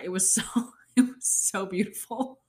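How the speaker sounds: whispering through a laugh, near tears; choked-up whisper. Real, not acted. Remembering the wedding, she whispers, choked up. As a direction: let the words catch as tears come. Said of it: "I'm gonna cry".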